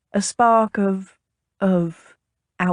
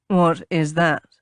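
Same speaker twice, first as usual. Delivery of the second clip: slow, flatly asked question; 3 semitones lower, slower than usual. A narrator's reading. Captain questioning the lady's bottle, flat. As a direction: ask it slowly, without interest. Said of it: "he asked flatly".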